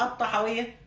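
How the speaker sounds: الطحاوية with the shadda pronounced; with gemination. Shown as a demonstration. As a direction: lean on the doubled consonant in الطحاوية. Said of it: "بالتشديد".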